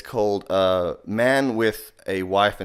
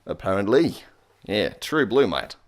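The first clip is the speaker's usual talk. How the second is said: put-on Australian accent. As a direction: lay on a jokey Australian accent. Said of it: "Slipped a little Australian into there".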